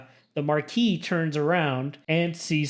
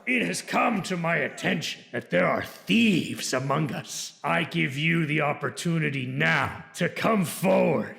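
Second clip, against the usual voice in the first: a lightly voiced noble calling out; Marquis yells. Marquis calling to the hall for thieves. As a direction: address the room as a lord. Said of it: "The Marquis yells".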